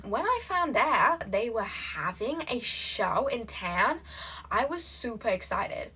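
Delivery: put-on American slipping into Australian; drawn-out, swooping Australian-tinged reading; accidental Australian accent. Reader aiming for American, slipping into Australian accent. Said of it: "I don't know why I switched to Australian".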